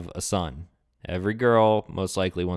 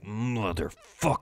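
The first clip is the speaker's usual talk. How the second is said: soft, slow suppressed swearing; mock private seething, kept quiet; inner cursing; 7 dB quieter, slower than usual. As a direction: curse under your breath, acting out a hidden thought. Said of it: "but on the inside, he's like".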